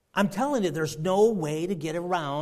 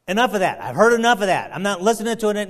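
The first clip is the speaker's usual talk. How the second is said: defiant; 5 dB louder, faster than usual. Retold or imitated. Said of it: "don't get into that attitude".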